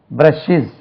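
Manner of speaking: பிரஷஸ் in two syllables, ending 'shiz'; shown pronunciation. Shown as a demonstration. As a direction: say பிரஷஸ் as 'brush-iz'. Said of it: "இப்படி வரும்". (பிரஷஸ்-ஐ 'பிரஷ்-இஸ்' என்று உச்சரி)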